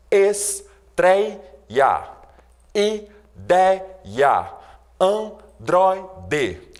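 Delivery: "estreia", "ideia", "androide" each with the penultimate syllable stressed, spaced out. Shown as a demonstration. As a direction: lean on the second-last syllable of each word. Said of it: "a sílaba mais forte nessas palavras é justamente a penúltima". ("estreia, ideia, androide" com a penúltima sílaba tônica)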